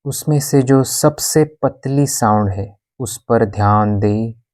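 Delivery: even, unhurried yoga nidra guidance; guided meditation. Acted. Yoga teacher guiding a class in shavasana, calm meditation voice. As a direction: guide them into stillness, with long pauses between instructions.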